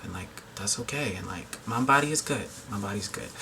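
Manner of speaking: getting emotional. Real, not acted. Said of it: "I'm getting emotional".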